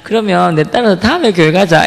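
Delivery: retold plea with a light laugh; laughter at the start, then friendly invitation; laughing through pain. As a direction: imitate someone chuckling while hurt. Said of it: "근데 웃으면서".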